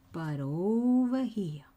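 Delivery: slow breathy whisper. Shown as a demonstration. Crafter whispers the key spot to her viewers. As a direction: drop to a whisper on over here. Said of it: "You wanna know why I'm whispering?".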